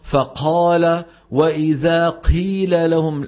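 "فقال" slow, air puffing out after the qaf; breathy qaf imitation. Shown as a demonstration. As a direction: drag out "قيل" with an aspirated qaf. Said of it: "هذا لا يقلد".

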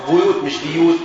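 بيوت with u, not i; damma vowel. Shown as a demonstration. Teacher correcting the students' vowel in بيوت. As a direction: say بيوت as buyut, not biyut. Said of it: "خلي بالك دي على ضمة".

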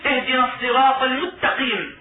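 المستقيم said with the س merged into the ت, as mutaqim; wrong assimilation. Shown as a demonstration. Teacher showing the mistake of a merging reciter. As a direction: swallow the س of المستقيم into the ت. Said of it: "يدغم في غير موضعه".

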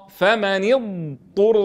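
فمن اضطر with a long drawn ض then a ط with u; correct slow recitation. Shown as a demonstration. Teacher to students, modelling the right pronunciation slowly. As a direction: stretch the ض of اضطر, then a clean طُ. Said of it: "نعطي الضاد حقها من الاستطالة".

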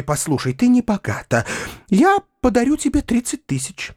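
put-on high, breathless, gushing old maid; a flighty spinster overflowing with rapture; rapturous spinster begging her niece to take money, high and gushing; giddy Tatyana Ivanovna. Tatyana Ivanovna voiced throughout.

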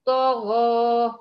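طغى drawn out very slowly and loud; طغى held long, lips flat; correct demo, slow. Shown as a demonstration. Teacher has the student repeat after her. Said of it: "وابدأي قولي".

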